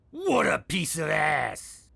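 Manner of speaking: slow leering shout. Acted. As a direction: bellow it with a leer. Boss leers about daughter.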